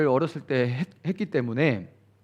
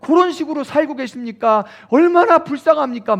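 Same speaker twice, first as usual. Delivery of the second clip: high, loud pleading revival-preacher voice; mock emotional revival sermon, rising to a cry; revival preacher's plea; 7 semitones higher, 5 dB louder than usual. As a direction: imitate a preacher working the crowd to tears. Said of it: "막 이렇게".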